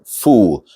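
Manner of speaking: "full" said with a long oo, like fool; wrong "full". Shown as a demonstration. Teacher isolating the faulty second syllable, wrong "full". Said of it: "the full is not as in fool".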